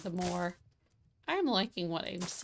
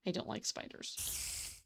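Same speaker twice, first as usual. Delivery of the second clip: slow uneasy whisper; hushed, wary of the spider; 8 dB quieter, slower than usual. Real, not acted. Hears a spider.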